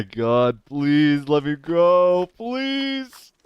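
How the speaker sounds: slow, tense begging; begging to be let go, near breaking; pleading. Real, not acted. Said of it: "tightness in my chest".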